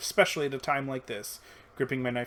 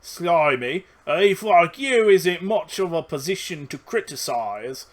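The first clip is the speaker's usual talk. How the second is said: hollering goblin; 5 semitones higher, 7 dB louder, slower than usual. Acted. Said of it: "one of them hollers at her".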